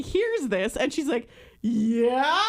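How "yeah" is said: mock starstruck. Imitating her friend answering the boy-band singer, mock starstruck. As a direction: squeal it as a giggly question.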